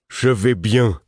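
thick slurred voice. Acted. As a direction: mumble it thickly, half-absent. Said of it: "fit-il d'une voix pâteuse".

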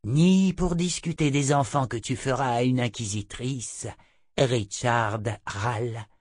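lightly voiced imperious witch, slowing on the name; scornful seer, lightly put on; haughty seer. Narrator voices Chota the seer.

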